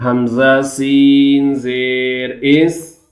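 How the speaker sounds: slow drawn-out chant for students to repeat; slow chanting teacher; recitation drill. Shown as a demonstration. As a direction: model each syllable slowly. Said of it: "Repeat after me".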